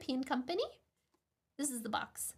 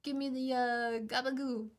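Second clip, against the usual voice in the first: mock Italian American. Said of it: "where he's like".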